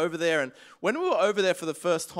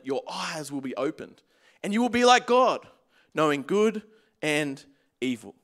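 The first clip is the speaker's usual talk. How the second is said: scripture reading. Acted. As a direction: read it out deliberately to the church. Reads scripture to congregation.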